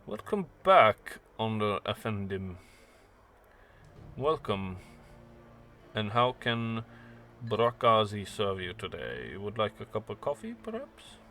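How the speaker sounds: a hint of a gracious Berlin informant offering coffee; courteous host. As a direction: innkeeper greeting a returning guest. GM voices host Brakazi.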